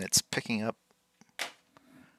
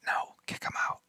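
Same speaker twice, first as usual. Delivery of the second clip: whisper; 9 dB quieter than usual. Pretend. Streamer voices chat arguing.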